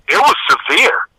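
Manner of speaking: normal talking voice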